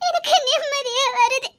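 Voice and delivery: relieved, tearful laugh; laughing through tears. Acted. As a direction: promise tenderly while half laughing, half crying. Wife relieved, laughing and crying.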